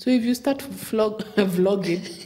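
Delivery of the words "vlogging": vlogging said with a loud, scornful laugh. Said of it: "Clearly, I know how you feel about it".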